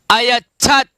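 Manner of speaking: अयच्छत said in separate, distinct syllables; careful pronunciation. Shown as a demonstration. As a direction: model अयच्छत clearly for students. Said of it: "एक बार उच्चारण कर लेंगे".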